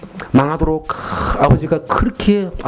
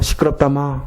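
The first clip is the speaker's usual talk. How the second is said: Gyeongsang dialect. Retold or imitated. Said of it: "경상도 말로 응답하시니까".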